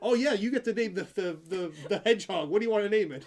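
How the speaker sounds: imitating a vet parent asking the child; mock parent. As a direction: play the cheerful parent. Parent voiced in story.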